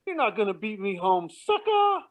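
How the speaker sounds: high-pitched gloating jeer, imitated; mock taunt. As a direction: tease them, rising high on the last word. Retold taunt out car window.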